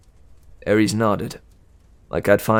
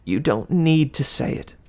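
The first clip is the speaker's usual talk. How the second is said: lightly raised sweet goddess voice; Aphrodite; 4 semitones higher than usual. Acted. Aphrodite cooing at Percy, lightly higher and sweet. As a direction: coo it like a doting goddess.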